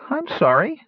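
high, sniffly apology; sniffling. A narrator's reading. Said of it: "said between sniffles".

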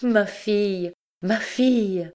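high-pitched ecstatic calls; rapturous mother's exclamation, pitched high; joyful cry. A narrator's reading. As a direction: cry out with overflowing joy. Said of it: "en criant".

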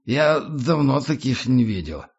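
put-on slow, slurred drunk praise; drunken admiration. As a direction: marvel like a tipsy tramp. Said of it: "тоном пьяного восхищения".

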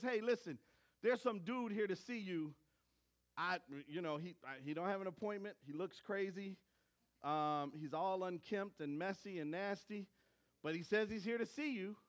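a low, murmuring secretary talking to his boss; hushed secretary. Retold or imitated. Secretary quietly warns Pharaoh about a strange visitor, low mutter. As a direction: lean in and mutter the news to Pharaoh. Secretary voiced in retold story.

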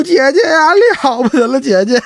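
high, wailing calls to his sister; hammed-up wailing for his sister. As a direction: cry out to her like a lost boy. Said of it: "嚎啕大哭".

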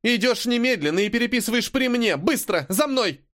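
angry teacher's commands; commanding. A narrator's reading. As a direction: order the pupil to follow now. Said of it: "Она скомандовала".

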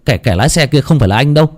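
quick, stammering protest; flustered denial. Acted. Suspect pleading innocence to Linh, flustered. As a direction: stumble over the first words, hurrying to be believed. Suspect insists he was not driving.

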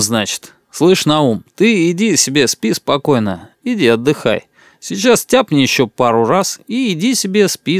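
a swaggering local chief, loose and pleased with himself; boastful tipsy boss. Acted. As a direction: brag to the table like the big man here.

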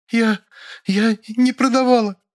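high, sobbing maid. Acted. Maid sobs denials to the interrogator, high. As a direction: sob it out in a high voice. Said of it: "прорыдала Нюра".

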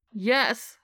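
enthusiastic yes. Acted. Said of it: "a muffled but enthusiastic".

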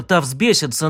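ordinary delivery

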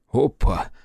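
lively, teasing exclamation; merry amazement. A narrator's reading. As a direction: react with delighted astonishment. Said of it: "вызвало у Акермана весёлое изумление".

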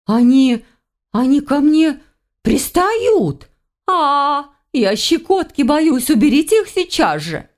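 surprised dryad. Acted. Dryad grabbed by roots, high startled squeal. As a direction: yelp in ticklish alarm. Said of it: "удивлённый голос дриады".

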